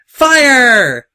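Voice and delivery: one long, high, very loud battle cry; wild high-pitched yell; shouted command. A narrator's reading. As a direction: bellow the order to the gunners, stretched out. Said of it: "the crazy pink mare shouted".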